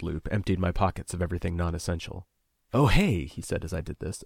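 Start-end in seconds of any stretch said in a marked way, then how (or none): 2.7-3.3 mock offhand, louder and higher; a put-on breezy remark; casual afterthought. A narrator's reading. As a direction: pretend it just occurred to you. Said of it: "affecting it as a casual afterthought".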